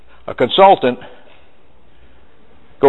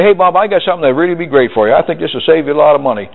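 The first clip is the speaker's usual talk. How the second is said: pushy sales pitch; faster than usual. Retold or imitated. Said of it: "you call up and you say".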